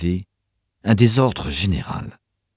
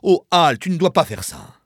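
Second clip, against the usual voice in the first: high, pleading outcry; alarmed, high-pitched objection; crying out in protest; 9 semitones higher, 4 dB louder than usual. A narrator's reading. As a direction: cry out to stop him. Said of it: "s'interposa avec des cris".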